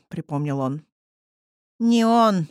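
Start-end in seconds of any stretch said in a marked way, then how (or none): 1.8-2.5 raspy demonic hiss; hoarse hiss. Acted. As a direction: rasp it out like a demon. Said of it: "просипел ... демонический голос".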